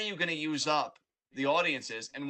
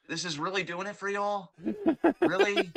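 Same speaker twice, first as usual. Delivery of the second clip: mock disbelief; 3 semitones higher, 4 dB louder than usual. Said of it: "I'm like".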